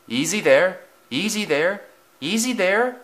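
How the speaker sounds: high, rising cautioning call; calling back. A narrator's reading. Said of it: "the coaches called back".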